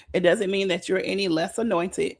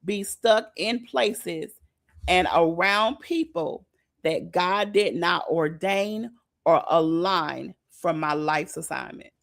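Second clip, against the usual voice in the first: reading aloud; slower than usual. Shown as a demonstration. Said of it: "something that I wrote down this morning".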